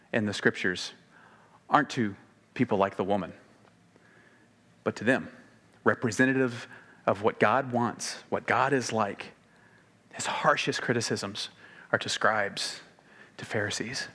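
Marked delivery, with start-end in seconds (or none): none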